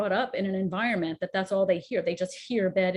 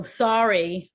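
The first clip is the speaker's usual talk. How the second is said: clipped, louder dismissive "Sorry"; curt sorry; 5 dB louder than usual. Shown as a demonstration. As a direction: snap out "Sorry" like you barely mean it. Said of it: "you can go".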